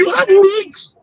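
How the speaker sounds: insistent retort. Retold or imitated. Repeating the retort.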